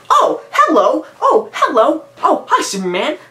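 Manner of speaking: high-pitched, giggly mock-psychopath impression; Jesse Eisenberg's Lex Luthor. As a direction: mimic an overacted, unhinged villain with a silly giggle. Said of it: "he does this".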